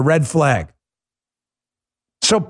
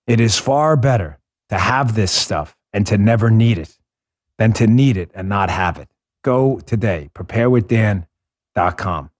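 lower, steady sponsor pitch; ad read; 5 semitones lower than usual. Acted. Host reading a My Patriot Supply ad to listeners, earnest pitch.

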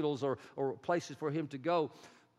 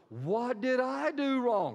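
distraught pig herder; 8 semitones higher, 3 dB louder, slower than usual. Acted. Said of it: "the pig herder goes".

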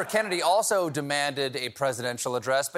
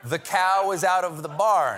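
put-on Southern folksy accent; 4 semitones higher, 5 dB louder than usual. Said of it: "folksy style".

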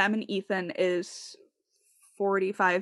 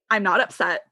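louder, mock-defensive denial; retold upset denial; 2 semitones higher, 7 dB louder, faster than usual. Host imitates upset podcaster denying it, defensive. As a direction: deny it a touch too forcefully, imitating someone upset. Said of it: "they are very upset".

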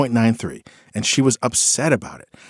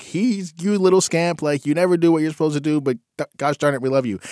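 doting parent; 5 semitones higher than usual. Retold or imitated.

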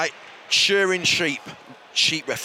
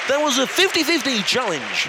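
Chris Tarrant impression; 3 semitones higher than usual. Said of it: "in my Chris Tarrant".

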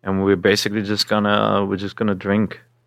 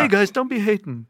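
sassy fake persona; 10 semitones higher than usual. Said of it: "Josie Otero".

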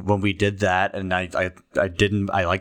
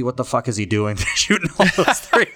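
laughing through the question; amused disbelief; 3 semitones higher than usual. Real, not acted. Host marvels at a big man shooting threes, laughing disbelief. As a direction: break into laughter mid-question, incredulous.

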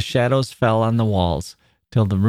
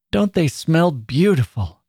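put-on higher, dreamy childlike murmur; 6 semitones higher than usual. A narrator's reading. Child with flowers at her lips, murmuring. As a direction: murmur it with lingering wonder.

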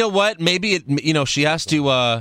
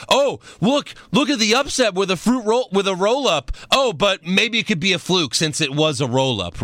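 imitating an easily impressed fan, higher pitched; mock amazement; 5 semitones higher than usual. Wrestling fan reacting to a surprise upset win, mock amazement. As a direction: play up fake wonder at an upset.

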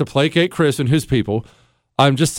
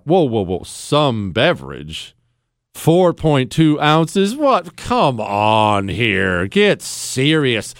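incredulous; 3 semitones lower, much slower than usual. Real, not acted. Incredulous at the tiny beverage amount.

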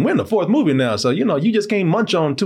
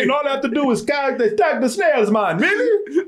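higher, fast and amazed; mock Jake voice; 10 semitones higher than usual. Jake amazed at the easy task, higher voice. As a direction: marvel at how easy it is.

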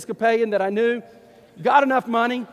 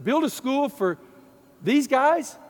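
higher, disbelieving repeat of the request; incredulous echo; 4 semitones higher, slower than usual. Retold or imitated. Pastor echoing the imams' school request, stunned disbelief. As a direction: echo it back in shock. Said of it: "And I said".

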